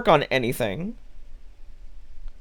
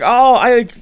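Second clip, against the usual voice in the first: higher, louder mock lament; lightly voiced whiny friend; 6 semitones higher, 5 dB louder than usual. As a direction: parody the friend's moaning. Imitating the friend's self-pity.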